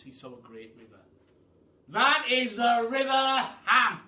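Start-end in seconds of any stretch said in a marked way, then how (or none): 1.9-4.0 loud proud cry; Duke crying out. Acted. The Duke shows the pelican his river, proud cry. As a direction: announce it proudly. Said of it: "cried the Duke".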